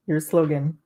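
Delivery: normal talking voice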